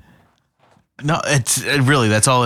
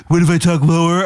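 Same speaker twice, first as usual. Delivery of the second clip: Meredith Grey impression; 5 semitones higher than usual. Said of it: "light your voice up".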